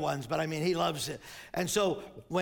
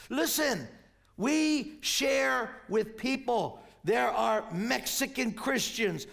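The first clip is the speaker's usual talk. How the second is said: emphatic, rhythmic pulpit delivery; impassioned preaching; 3 semitones higher, slower than usual. Real, not acted. Preacher rallying congregation around shared faith, impassioned proclamation. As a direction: build the list with slow, punched phrases.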